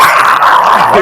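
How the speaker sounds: wet chomping zombie noise; zombie eating noise. Shown as a demonstration. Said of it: "do a zombie noise".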